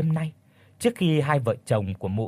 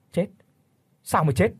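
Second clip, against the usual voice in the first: startled questioning; 3 semitones higher than usual. Acted. Brother asks greedily about land papers.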